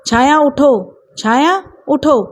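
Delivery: calling out, holding back anger; a firm call to wake her, anger kept in check; restrained anger. Acted. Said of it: "गुस्से पर काबू रखते हुए छाया को आवाज़ लगाई". (दबे गुस्से से पुकारना)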